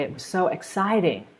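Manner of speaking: "exciting" stretched with a falling swing on CIT; stress on EXCITING. Shown as a demonstration. Answering how the field trip was, strong stress on "exciting". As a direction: make "exciting" the peak of the sentence. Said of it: "So you're stressing that word".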